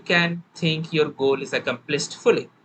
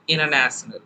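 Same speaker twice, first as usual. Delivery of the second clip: American English. Shown as a demonstration. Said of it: "hear any American, they would say".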